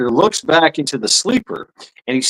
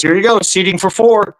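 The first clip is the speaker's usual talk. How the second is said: bartender voice; 5 semitones higher, 3 dB louder than usual. Acted. Bartender punchline.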